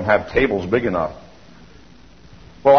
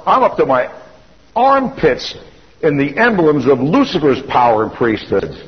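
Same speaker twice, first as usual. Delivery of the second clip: alarmed realization; 4 semitones higher than usual. Real, not acted. Realization of Lucifer's emblems.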